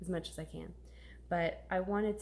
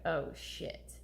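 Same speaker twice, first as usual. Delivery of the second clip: whispered dismay; 2 semitones lower, 4 dB quieter than usual. Retold or imitated. Retold dismay at teacher.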